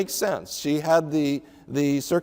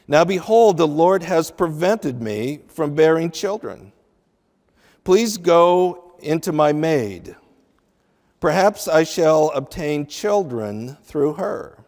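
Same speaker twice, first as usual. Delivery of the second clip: solemn reading of Sarai's plea; scripture reading. Acted. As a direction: give each phrase of the verse weight. Reads Sarai's words from Genesis.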